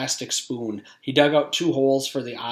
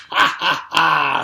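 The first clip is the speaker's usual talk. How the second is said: breathy, loud mock evil laugh; hammed-up evil ha ha ha; villain laugh; 3 semitones higher, 6 dB louder, slower than usual. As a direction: cackle like a witch. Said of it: "The potato salad laughed".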